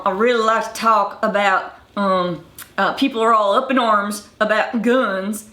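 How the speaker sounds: imitating a West Virginia mountain Southern accent, hard R's. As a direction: voice a mountain townsfolk man in a mild Appalachian Southern accent. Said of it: "where you have guys saying".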